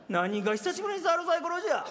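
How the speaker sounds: put-on scoffing echo of the old-man line; mocking retort. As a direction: throw the words back, scornful. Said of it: "しょっちゅうやってるやないか". (相手の台詞を鼻で笑ってオウム返しに言う)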